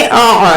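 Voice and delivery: आ squeezed from the middle of the throat; middle-throat ain. Shown as a demonstration. Teacher showing the letter ain, आ squeezed from middle throat. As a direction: squeeze each आ in mid-throat. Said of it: "middle throat से अदा करेंगे".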